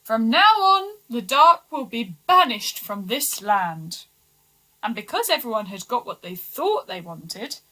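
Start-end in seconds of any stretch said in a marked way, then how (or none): 0.0-4.1 loud king decreeing; king announcing a decree to his people; royal proclamation. Acted. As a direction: declare it from the throne.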